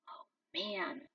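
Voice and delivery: soft voiceless breath; hushed exclaim. A narrator's reading. Son spots Cheetah, hushed. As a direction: mutter in tense relief.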